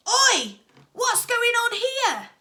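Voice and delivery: loud, high shout, slowed on the question; deep-voiced shout. A narrator's reading. Dad shouting to the referee. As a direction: bark it across the pitch. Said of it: "shouted in a deep voice".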